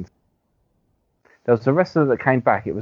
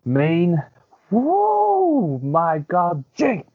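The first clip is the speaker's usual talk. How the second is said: Mean Gene impression; 8 semitones higher, much slower than usual. Mocking Mean Gene's catchphrase.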